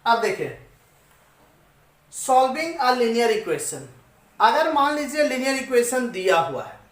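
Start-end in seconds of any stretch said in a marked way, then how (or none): 2.1-3.9 slow topic title. Shown as a demonstration. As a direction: announce the heading very slowly. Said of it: "teacher announces the topic". (शीर्षक बहुत धीरे-धीरे बोलें)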